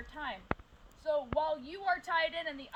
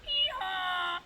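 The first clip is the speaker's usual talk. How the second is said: loud, higher hee-haw bray; donkey impression; 4 semitones higher, 6 dB louder than usual. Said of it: "I'm going to give my best donkey impression".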